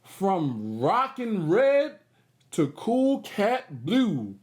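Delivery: slow, bouncy read-aloud of the rhyme; rhythmic storybook reading. Acted. Host reads the rhyming page to the kids. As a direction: let the rhyme groove.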